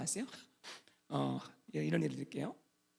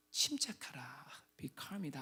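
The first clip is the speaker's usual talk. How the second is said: hushed whisper; 7 semitones lower, 11 dB quieter, much slower than usual. Shown as a demonstration. Preacher urging the congregation to stay calm, whispered. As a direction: whisper it softly, like calming a frightened friend.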